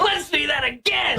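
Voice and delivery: real excited shout. Real, not acted. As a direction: shout it out, thrilled. Replaying clip, amused.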